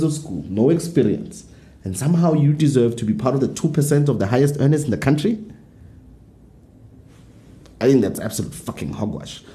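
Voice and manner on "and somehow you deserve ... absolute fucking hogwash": a bit tipsy, loose and sweary. Real, not acted. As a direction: let the drink loosen the words. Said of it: "I'm swearing a lot 'cause I'm getting tipsy".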